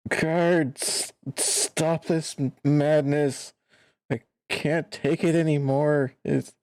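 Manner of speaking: broken prisoner crying out; desperate plea. Acted. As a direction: beg for the torment to end.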